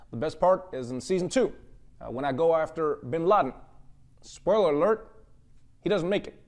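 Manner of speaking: calm the nation like a president at a podium; lightly voiced Barack Obama reassuring everyone; Obama impression. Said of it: "he'd just come out and be like".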